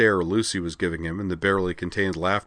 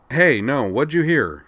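high, loud protest; 7 semitones higher, 6 dB louder, slower than usual. Acted. Dyson protests to the general, loud and alarmed. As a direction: insist on innocence, alarmed. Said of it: "Dyson protested".

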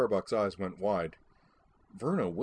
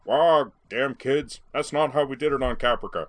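hammed-up cranky elder; grumpy old man impression; 6 semitones higher, 8 dB louder than usual. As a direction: scold the youngsters as a caricatured old grouch. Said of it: "Boomer intoned".

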